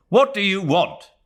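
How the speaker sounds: a son losing patience; exasperated. A narrator's reading. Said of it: "he said, exasperated".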